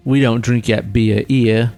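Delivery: slow mock Australian accent. Correcting the beer claim in a slow Australian accent. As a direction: answer slowly in put-on Australian. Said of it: "working on this Australian accent".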